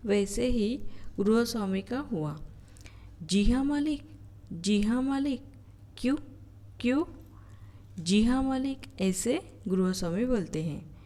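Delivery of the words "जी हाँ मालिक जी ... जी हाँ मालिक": stammering with anger. Shown as a demonstration. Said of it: "गुस्से से तुतलाने लगता है".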